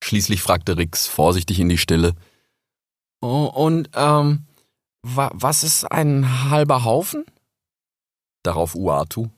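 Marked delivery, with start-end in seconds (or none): 3.2-7.2 high, hesitant little fox; young fox voice. Acted. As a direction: ask shyly like a small cub. Cub asks carefully.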